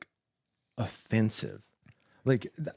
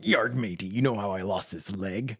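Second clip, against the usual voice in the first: pirate voice. Pretend. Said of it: "Be like".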